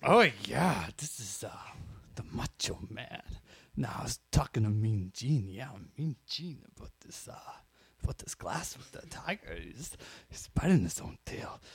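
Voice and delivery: halting amateur wrestler impression; Macho Man. Friend giving a tiger interview to Mean Gene, tentative wrestler impression. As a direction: play the wrestler softly, pausing between phrases. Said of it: "tried to do a Macho Man impression".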